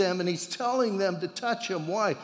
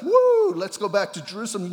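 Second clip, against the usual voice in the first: mock eager shout; 3 semitones higher, 6 dB louder than usual. Mock disciples deciding to walk back.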